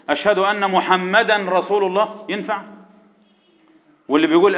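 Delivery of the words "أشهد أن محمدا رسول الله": "محمدا رسول" with the n sounded clearly, muhammadan rasul; faulty call to prayer. Shown as a demonstration. Teacher imitating a muezzin's mistake, n left unmerged in "محمدا رسول". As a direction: keep an open n before the r in "محمدا رسول". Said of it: "زي اللي بيأذن مثلًا".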